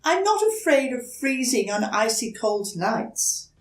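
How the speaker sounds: put-on high, hesitant small-child voice; young turtle politely asking a stranger for help; timid little turtle. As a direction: ask shyly, a little scared. Franklin replies.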